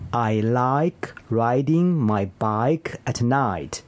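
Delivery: slow repeat, full glide in LIKE, RIDING, BIKE, NIGHT; long I practice. Shown as a demonstration. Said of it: "这个练习可以让你读好I这个音".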